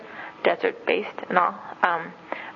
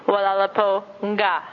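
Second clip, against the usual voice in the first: put-on greeting a child. Shown as a demonstration. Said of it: "or you can say".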